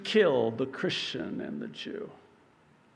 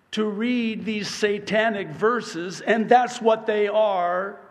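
rising pulpit preaching, pitch climbing high; fiery sermon delivery; 7 semitones higher, 7 dB louder than usual. Acted. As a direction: preach it with mounting force.

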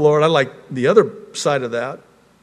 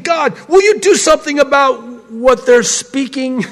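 higher-pitched, urgent plea; crying out to God; 8 semitones higher, 4 dB louder than usual. Retold or imitated. David pleading with God about evil men, crying out. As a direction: call out to God in protest. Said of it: "he's crying out to God".

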